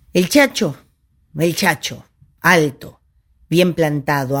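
measured recital with pauses between phrases; solemn portrait recitation. Acted. Storyteller reciting the caudillo's portrait, measured declamation. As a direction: recite each trait as a separate declamatory phrase.

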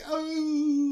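a sudden high yelp; surprised shout. Real, not acted. Storyteller blurting out mid-scene, high yelp.

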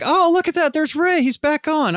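high, bright surprised exclamation; delighted discovery on Instagram; excited. Retold or imitated. Excited seeing Ray live.

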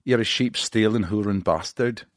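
hammed-up Scottish insult; put-on Scottish accent. Host asking guest Irish or Scottish, put-on accent. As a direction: try a rough-and-ready Scottish accent. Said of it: "That sounds pretty Scottish".

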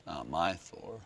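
low, soft grumble; muttered mock protest. Comic fan disowning the new Thor, muttered. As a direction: mutter it under your breath as a sulky fan.

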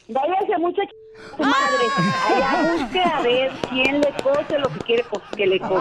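furious telling-off down the phone; angry outburst. Real, not acted. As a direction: snap at the prank caller, voice jumping up. Angry lady swears at caller.

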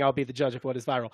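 a hint of the tech CEO; Mark Zuckerberg. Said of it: "that's a pretty good impression".

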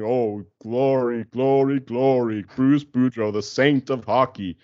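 slow, drawn-out mock adoration of a saint; sarcastic hymn of praise; mock worship. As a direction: gush over him like a worshipper, slowly. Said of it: "Everyone else is saying".

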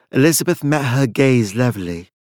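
ordinary delivery, nothing marked

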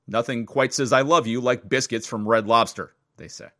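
lively, measured podcast news read. Acted. Host reads a Valentine's biscuit story, upbeat news read. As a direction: read the wire story to listeners.

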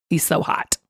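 soft unvoiced whisper; whispered aside. Real, not acted. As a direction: whisper it like a secret. Flirty aside about guest.

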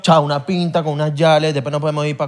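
put-on lightly done Panamanian accent and slang; a buddy talking Panamanian slang, dragging out the di que; Panamanian accent imitation. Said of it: "me gustaba imitarlo con mis panas". (imitación ligera del acento panameño entre amigos)

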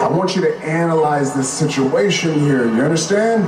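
menacing wrestler promo. Acted. Played clip, Roman's speech.

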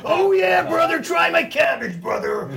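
high yelled hillbilly cabbage pitch; hammed-up hick voice. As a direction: shout it like a country huckster. Mock farmer pitch to guest.

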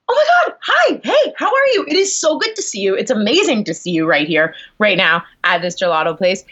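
manic greeting. Retold or imitated. Actor awkwardly greeting a director at the gelato place, manic. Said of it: "like, manic".

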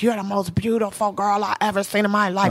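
voicing a smitten little boy. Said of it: "It was a little boy's voice".

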